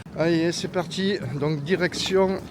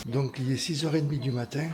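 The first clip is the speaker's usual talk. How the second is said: hushed so Thomas keeps sleeping; prank whisper; 4 semitones lower, 5 dB quieter than usual. Real, not acted. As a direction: keep it low and hushed. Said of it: "on peut parler de normal alors".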